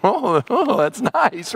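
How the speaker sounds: slow, sly mock approval; a hint of calculating visitors; scheming envoys. Babylonian envoys eyeing the treasure, slow sly mock praise. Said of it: "you can imagine the Babylonians".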